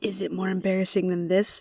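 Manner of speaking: close, whispered. Voicing a character who goes to another character's ear, whispering in someone's ear. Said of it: "whisper in her ear and go".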